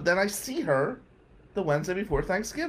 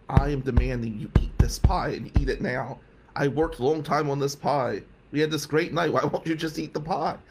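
demanding; 2 semitones lower than usual. Retold or imitated. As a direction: imitate a girlfriend laying down orders. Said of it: "She gets really demanding".

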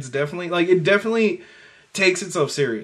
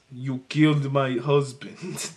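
put-on slow, low Russian accent, half-hearted and a little lower; a lightly done Russian accent, drawn out slowly; Russian widow voice; 3 semitones lower, 5 dB quieter than usual. Co-host hams up Bond girl's grieving revenge line in a slow Russian accent. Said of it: "I need to get my Russian widow voice".

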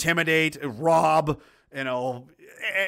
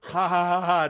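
mock laugh. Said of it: "Don't make me laugh".

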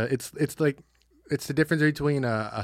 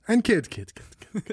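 whispered repeats fading out; whispered echo; 7 semitones higher, slower than usual. Pretend. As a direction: whisper it and fade away. Echoing announcer bit.

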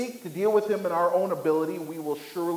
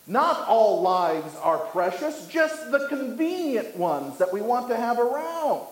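slow proclamation rising in pitch; acted crying out; 6 semitones higher than usual. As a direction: call it out as the mocking lion. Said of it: "The lion cries out".

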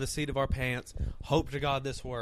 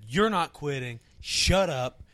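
louder, emphatic telling-off; firm retold order; 4 dB louder, slower than usual. Retelling how he stopped a friend quitting, firm order. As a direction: shut down the quitting talk firmly.

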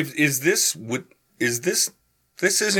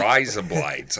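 put-on Australian accent; 4 semitones lower than usual. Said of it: "Is what I'm doing Australia?".

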